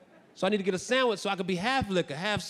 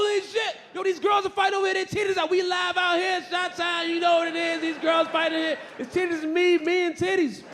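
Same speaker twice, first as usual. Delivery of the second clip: high, loud, quick hollering; thrilled high-pitched yelling; excited hype shout; 10 semitones higher, 3 dB louder than usual. Acted. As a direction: holler it out like a rowdy onlooker. Hyping up a street fight.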